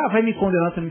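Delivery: put-on defensive teen. Son retorts to the speaker.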